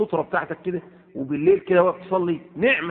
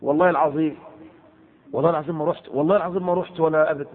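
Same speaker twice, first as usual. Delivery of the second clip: lightly voiced insistent swearing; imitating an oath; faster than usual. Preacher imitating a man swearing by God, insistent. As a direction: swear it eagerly, a hint of a nervous man. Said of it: "تقول له".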